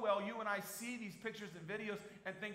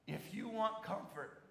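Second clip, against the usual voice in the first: want leaned on, slow and emphatic; stressed want; 4 semitones higher, slower than usual. Shown as a demonstration. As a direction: press want as the key. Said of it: "Let me help you read this verse".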